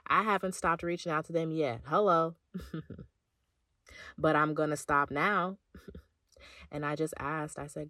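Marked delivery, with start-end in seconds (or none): 0.1-6.0 laughing confession. Real, not acted.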